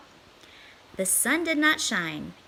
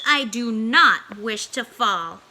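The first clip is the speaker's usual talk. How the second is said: fearful fish; 7 dB louder, slower than usual. Acted. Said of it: "said the fish".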